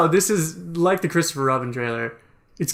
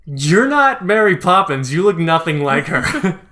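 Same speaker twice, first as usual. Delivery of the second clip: put-on slow, louder grumpy old man; hammed-up old man, laughing through it; 5 dB louder, slower than usual. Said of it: "go up to Emily Blunt like".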